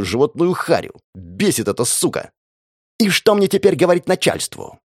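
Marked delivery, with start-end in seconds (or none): 3.0-4.8 spitting rage. Acted. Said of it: "продолжал плеваться он".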